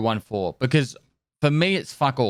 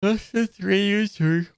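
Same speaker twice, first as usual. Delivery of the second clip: slow, higher robotic readout; imitating robot voice; 7 semitones higher, slower than usual. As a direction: mimic the text-to-speech voice. Repeats the donation robot voice.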